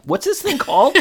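high-pitched airhead voice; high ditzy voice. Retold or imitated. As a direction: raise the pitch, play it clueless. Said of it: "And Tanya's like".

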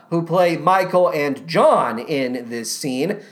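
ordinary delivery

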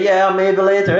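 lightly voiced offhand put-off; casual brush-off. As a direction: toss it off like a casual maybe. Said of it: "expecting you to say".

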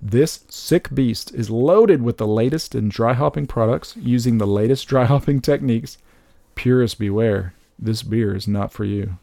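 slow, deliberate dramatic read; label read. Pretend. Reading the beer can's blurb to co-host, dramatic label read.

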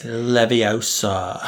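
slow, drawn-out mimicry of LEVIOSA; mimicked spell word. Listener echoing the charms lesson, drawn-out mimicry. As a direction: stretch LEVIOSA out slowly. Mimicking the film's famous line.

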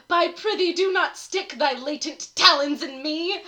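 slow, grand poetry recital; hammy stage actor. Acted. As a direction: declaim like an old stage actor. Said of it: "It's called To a Cat".

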